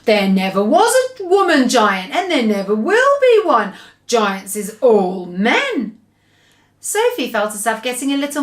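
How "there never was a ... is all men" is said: a lightly voiced giant, firm and sure; BFG. The giant firmly tells Sophie that giants are all men, lightly voiced.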